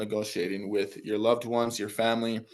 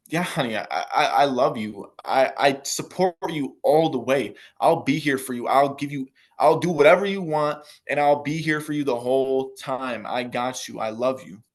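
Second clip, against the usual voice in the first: put-on supportive girlfriend; 4 dB louder than usual. Girlfriend cheering on her partner's ninety-day plan, loud and doting. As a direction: gush your full support like a devoted partner. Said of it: "So here's the good one".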